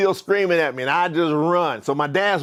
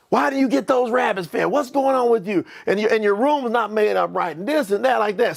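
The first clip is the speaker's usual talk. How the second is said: higher-pitched mock scolding, no real shout; retold parental screaming; 3 semitones higher than usual. Dad scolding his kid about unfed rabbits, mock yelling. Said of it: "they're screaming".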